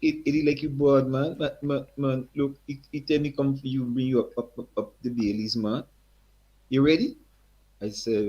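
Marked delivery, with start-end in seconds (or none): 0.0-7.2 put-on high, hearty Guyanese accent. Eddie's father greets the young singer in a high Guyanese accent. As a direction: greet him like an old Guyanese man. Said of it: "Strong accent again".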